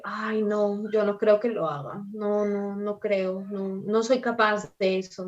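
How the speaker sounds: mildly reluctant, self-doubting murmur of refusal; negative reply. Acted. Coach mimics an interviewee turning down a task, mildly negative. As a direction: lightly act out an unwilling candidate. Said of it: "evitar ser agresivos o por ahí negativos".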